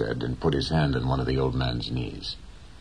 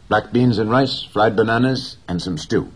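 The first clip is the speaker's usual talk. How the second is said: put-on higher, louder eager boy; a boy listing supper brightly; boy's voice; 7 semitones higher, 6 dB louder than usual. A narrator's reading. Boy's voice in read story.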